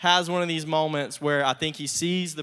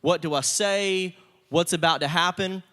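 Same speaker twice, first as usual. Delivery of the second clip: a touch of panicked worry, a little higher and louder; mock panic; 5 semitones higher, 4 dB louder than usual. Joseph panicking on seeing his brothers, mildly flustered. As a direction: play Joseph's flustered panic, half-hearted. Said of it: "Joseph kinda panics a little bit".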